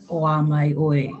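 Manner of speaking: slow, flat "Oa mai oi" with no lift; mimicking the flat reading; imitating flat take. Shown as a demonstration. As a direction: say "Oa mai oi" flat, the way it sounded wrong. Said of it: "yours, like, I don't know, flat".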